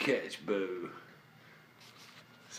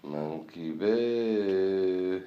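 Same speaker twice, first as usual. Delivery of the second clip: 1 slow drawn-out coo; much slower than usual. Real, not acted. Cooing at the cat.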